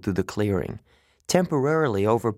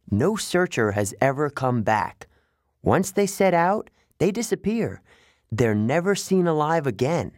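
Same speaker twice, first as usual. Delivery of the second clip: higher, rising with dread; a young satyr facing the odds; grim satyr; 6 semitones higher than usual. Acted. Grover explains searchers vanish.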